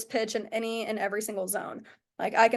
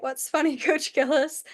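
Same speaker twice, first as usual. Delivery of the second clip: higher-pitched, puzzled retelling; puzzled question; 4 semitones higher than usual. Retold or imitated. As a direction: ask the coach what the joke is, pitched up. Puzzled question to laughing coach.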